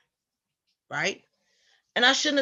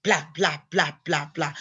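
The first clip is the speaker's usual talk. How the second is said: Ethel whining. Retold or imitated. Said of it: "she's whining and she's crying".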